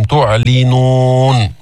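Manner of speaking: "تعلنون" very slow with a clear i on the lam; clear kasra on lam. Shown as a demonstration. Teacher shows the lam's kasra in "تعلنون", very slow. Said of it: "بين كسرة اللام".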